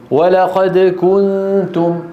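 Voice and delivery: كنتم with the u held long; slow demo of كنتم; stretched damma. Shown as a demonstration. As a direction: draw out the u of كنتم. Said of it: "إذا طولناها".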